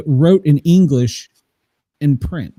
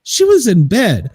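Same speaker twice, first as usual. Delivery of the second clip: raised voice called to another room; yelling across the room; 5 semitones higher than usual. Real, not acted. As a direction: call it out across the house. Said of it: "As he yells across the room".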